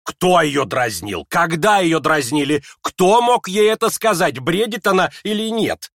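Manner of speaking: high, loud furious questioning; trembling with anger. Acted. Mother to everyone, furious demands. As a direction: demand answers in rage. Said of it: "трепеща от гнева".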